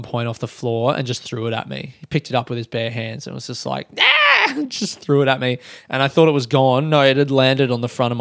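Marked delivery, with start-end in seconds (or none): 4.0-4.2 short imitated kid scream; mock high-energy screech; child's gleeful scream. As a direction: yelp like a wild four-year-old. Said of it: "he's laughing and screaming".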